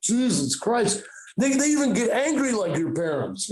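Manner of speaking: dazed, stretched-out druggy wonder; acid voice. Acted. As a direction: imitate someone tripping and marvelling. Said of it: "I'm doing my acid voice now".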